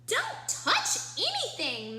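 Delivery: high, loud don't touch; sharp warning. A narrator's reading. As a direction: snap out the warning. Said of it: "Max said to Ruby".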